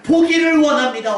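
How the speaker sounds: loud, high, impassioned outburst; pent-up longing. Retold or imitated. Preacher voicing the blind beggar's deepest wish, impassioned cry. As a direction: let the long-held wish burst out. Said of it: "응어리진 그의 말".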